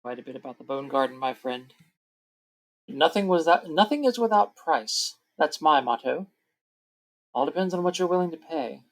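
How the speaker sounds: lightly voiced sly merchant; hint at a price for what you know; understated wheeler-dealer in character; shrewd peddler. Game master voices the peddler.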